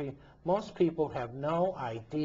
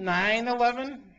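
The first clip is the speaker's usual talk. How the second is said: loud, much higher, pressing the point; incredulous outburst; 10 semitones higher, 8 dB louder than usual. Real, not acted. Host pressing silent listeners, loud incredulous repeat. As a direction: hammer the question home in disbelief.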